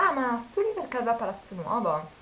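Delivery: light imitation of an eager stranger; imitating the guy. Voicing the guy asking.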